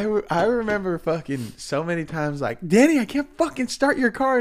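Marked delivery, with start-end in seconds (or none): 2.7-4.4 high-pitched, exasperated complaint; mock-frustrated call to a friend; retold exasperation. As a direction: whine it higher, acting out frustration.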